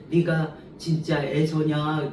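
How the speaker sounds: put-on slow, probing old father's question; a hint of the doubting old father. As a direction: ask slowly, suspicious. Blind father questions Jacob.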